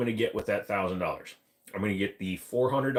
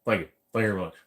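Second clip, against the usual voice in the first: impression of a famous singer; 3 dB louder, much faster than usual. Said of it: "sounds like a famous singer".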